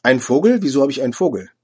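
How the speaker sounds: retold indignant outburst. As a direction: bristle at the insult. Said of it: "Ich fuhr empört auf".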